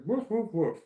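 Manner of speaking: high put-on woof, woof, woof; mock dog woof. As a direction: ape the neighbor barking like a dog. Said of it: "the neighbor was just like".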